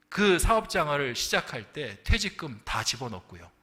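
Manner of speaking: usual speaking voice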